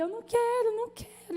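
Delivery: high, tearful "I don't want to"; imitating a crying daughter, high and pleading; whiny crying refusal. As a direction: whimper it like a scared daughter. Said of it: "e chorava".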